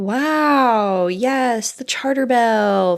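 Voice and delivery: deadpan mock wonder; sarcastic excitement. Real, not acted. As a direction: fake enthusiasm, dripping with sarcasm. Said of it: "Very exciting".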